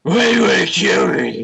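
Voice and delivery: loud streamer outburst, starting high; Tyler One. Acted. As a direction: blast it out as a mock raging gamer. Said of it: "Tyler One voice on for this one".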